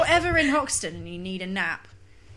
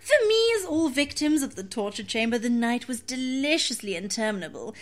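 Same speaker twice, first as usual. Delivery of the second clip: prim voice. Acted. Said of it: "the most prim voice possible".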